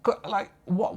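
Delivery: high-pitched amateur Scouse; Liverpudlian accent. Acted. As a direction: repeat the practice line in put-on Liverpudlian. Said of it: "I can't do the Liverpudlian accent".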